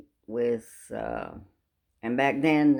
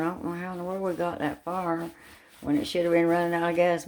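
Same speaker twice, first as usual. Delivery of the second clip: amazed disbelief; 5 semitones higher, faster than usual. Retold or imitated. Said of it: "me and Grace is going".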